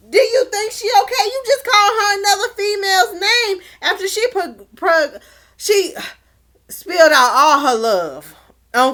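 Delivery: high, fast-starting shouted rebuke; indignant scolding. Pretend. Recapper telling Shane off over the wrong name, shouting indignantly. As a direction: let him have it in disbelief.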